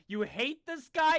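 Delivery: slow emphatic direction. Shown as a demonstration. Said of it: "this is your motivation".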